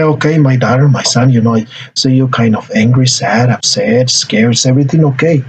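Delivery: low-pitched, gentle check-in; carefully name the teenager's feelings; understanding parent. Shown as a demonstration. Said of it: "We may say".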